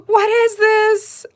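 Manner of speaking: gasp, then a high, loud, drawn-out question; amazed gasp. Real, not acted. Opening the mermaid gel, gasping in wonder. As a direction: stretch it out in disbelief.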